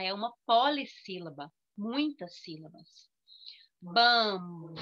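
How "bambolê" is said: "Bambolê" split into bam, bo, lê; three distinct beats on "Bambolê"; syllable by syllable. Shown as a demonstration. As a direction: pause after each syllable of "Bambolê". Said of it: "três".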